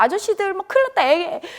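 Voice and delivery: high, loud frantic cry for help; child screaming for the men as her friend dies, high and loud panic; panicked shouting. Retold or imitated. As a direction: call out to the men as if a child is dying. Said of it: "막 소리소리 지르니까".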